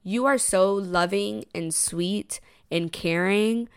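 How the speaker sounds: slow, deliberate self pep talk; self-affirmation. Retold or imitated. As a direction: tell yourself this slowly, sincerely. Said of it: "I was like, to myself".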